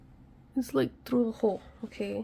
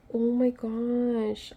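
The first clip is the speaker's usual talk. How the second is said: surprised gasp; much slower than usual. Real, not acted. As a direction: gasp then slow amazed "oh my gosh". Piece finally snaps in.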